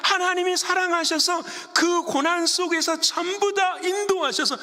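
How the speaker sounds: high, driving sermon delivery; impassioned pulpit voice; fervent preaching. Real, not acted. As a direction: preach it in a sustained high pitch. Preaches with rising fervour.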